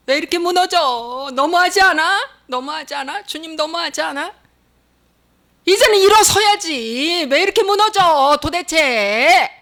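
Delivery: high, drawn-out lament; acted cry of despair, stretched endings; anguished outcry. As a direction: plead and wail at God. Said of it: "이것이 자기 속에서 절규로".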